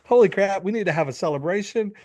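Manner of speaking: hammed-up wife gushing over her husband; gushing excitement. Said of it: "She's like".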